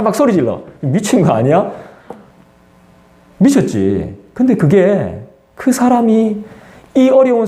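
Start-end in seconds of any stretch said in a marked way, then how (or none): none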